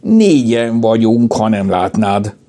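high, slow, miffed cat voice; indignant feline whine; offended meowing cat. A narrator's reading. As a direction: mew it out with hurt pride. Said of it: "Picasso sértődötten nyávogott".

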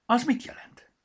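high, loud little character voice; timid little glasses, hopeful; high-pitched small character asking; glasses Vaksi. Acted. Vaksi asks.

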